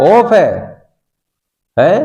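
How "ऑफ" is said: ऑफ with a hard final f sound; mispronounced "of". Retold or imitated. Teacher echoing the students' mistake, ऑफ ending in f. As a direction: echo the wrong ऑफ, ending in f. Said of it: "हाँ, ऑफ नहीं है ये".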